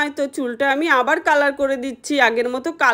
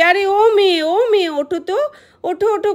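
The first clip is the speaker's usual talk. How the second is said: calling out to wake her; 5 semitones higher than usual. Acted. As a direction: rouse her with a raised, puzzled call. Mother wakes a strange girl.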